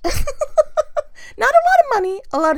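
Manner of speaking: slow, high laughing through the words. Real, not acted. Amused at inheriting stuff, not money, laughing. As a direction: laugh it out slowly.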